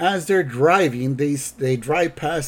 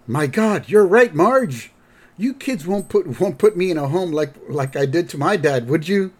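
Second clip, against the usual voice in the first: mock-panicked dad, pitched up; alarmed; 4 semitones higher, 4 dB louder than usual. Homer begs the kids not to put him in a home, mock alarm. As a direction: plead with a touch of dread.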